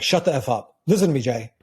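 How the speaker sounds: firm, superior command; imitating a stern, commanding coach; strong tone of voice. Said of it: "with a strong tone of voice, like".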